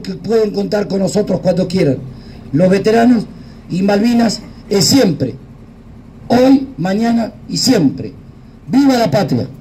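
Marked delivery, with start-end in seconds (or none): 2.5-9.5 booming balcony speech. Real, not acted. Closing cry of patriotic speech.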